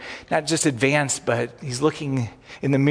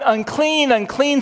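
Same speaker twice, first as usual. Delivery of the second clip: crying out; 10 semitones higher, slower than usual. Retold or imitated. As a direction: shout the warning above the throng. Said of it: "he starts crying".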